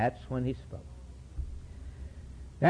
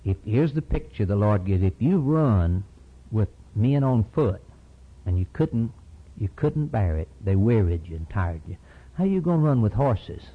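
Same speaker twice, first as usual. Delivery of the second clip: lower, firm voice of God; God rebuking; 5 semitones lower than usual. Acted. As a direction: rebuke the servant with lower firmness. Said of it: "God comes and he says".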